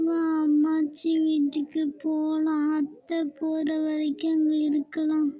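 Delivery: put-on slow child's voice; little girl. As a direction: coax like a small kid. Little girl urges going to grandma.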